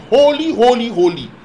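holy called out high and loud; seraph's cry. Acted. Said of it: "he cried".

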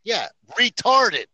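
retarded slow, high and loud; emphatic repeat. Real, not acted. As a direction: lean hard on retarded. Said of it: "can you do it one more time".

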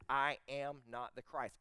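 slow, measured declaration; emphatic and clear. Acted. John denying he is the Christ, emphatic. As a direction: give I AM NOT its own deliberate weight, word by word. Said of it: "It's emphatic, it's clear".

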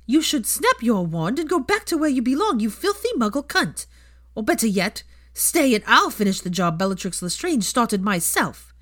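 high, loud hateful snarl; a hater's howler shrieking threats; vicious threat. Acted. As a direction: threaten her with venom.

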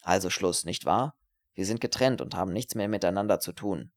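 nervous finality, seeking agreement; self-centred student, insistent. Acted. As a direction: push her to confirm the break. Voices Herbert breaking off.

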